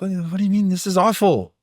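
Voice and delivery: high, dismayed mock protest; hammed-up villagers upset by the farmer; shocked villagers. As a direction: villagers can't believe him. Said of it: "they're like".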